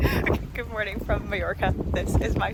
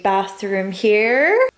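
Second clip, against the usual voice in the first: drawn out slowly; 5 dB louder, much slower than usual. Real, not acted. Dorm tour.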